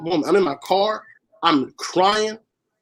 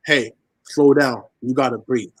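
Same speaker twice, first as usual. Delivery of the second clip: calm judge; 4 semitones lower than usual. Retold or imitated. Judge calming shaken defendant.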